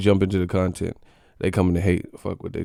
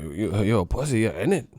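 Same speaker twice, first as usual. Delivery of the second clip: put-on British accent; 3 dB quieter than usual. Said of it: "Them U K dudes be going in".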